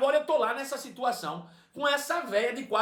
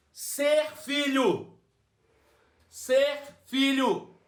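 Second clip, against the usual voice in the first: very slow, emphatic, spaced declarations; slow preaching; 4 semitones higher, much slower than usual. Acted. Preacher hammering the message, slow emphatic preaching. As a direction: lay each word down with weight.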